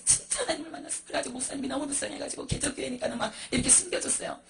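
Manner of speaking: ordinary delivery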